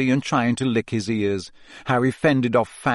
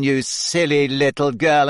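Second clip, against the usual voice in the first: a hint of cold condescension; cold putdown; 2 semitones higher, 3 dB louder than usual. A narrator's reading. Journalist dismissing Hermione, mildly cold. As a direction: belittle her coolly.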